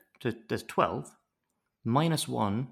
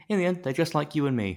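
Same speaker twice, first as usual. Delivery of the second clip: higher, louder mock-earnest plea; mock sentimental writer; 6 semitones higher, 5 dB louder, faster than usual. Writers excusing their villains, mock earnest. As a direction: plead it with hammed-up sincerity. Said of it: "And then they're like".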